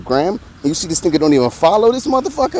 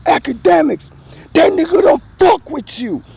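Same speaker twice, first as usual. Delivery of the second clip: lightly voiced radio host call-out, higher and a bit louder; imitating Ebro; 11 semitones higher, 3 dB louder than usual. Host mimicking Ebro dissing Academics on air, mock call-out. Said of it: "Ebro on Hot ninety-seven Live say".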